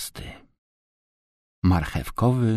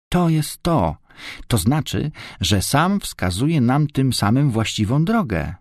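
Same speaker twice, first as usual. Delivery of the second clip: high, delighted realisation; roześmiana radość; 6 semitones higher than usual. A narrator's reading. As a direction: exclaim the discovery in a raised, lively voice. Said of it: "roześmiała się Renatka". (radosny, wysoki głos olśnienia)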